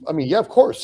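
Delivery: amused disbelief; laughing. Real, not acted. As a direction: laugh as you say it. Laughing at the easy deal.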